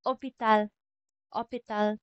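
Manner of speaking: French "hôpital" begun on the o, no h; silent H. Shown as a demonstration. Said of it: "hindi natin binabanggit yung letter H".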